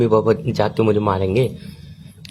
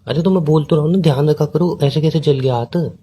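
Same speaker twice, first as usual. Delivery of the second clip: higher, exasperated concern; defensive repeat; 4 semitones higher than usual. Real, not acted. Boyfriend accused of not caring, defensively repeating himself. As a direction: insist that you already showed concern.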